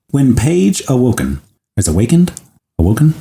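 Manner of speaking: measured storytelling read; story narration. Acted. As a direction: tell it like a story, unhurried. Reads the story aloud.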